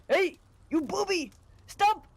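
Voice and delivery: high frantic shouting man; crazy man yelling. Retold or imitated. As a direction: yell like a madman chasing you. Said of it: "this crazy man came running out and said".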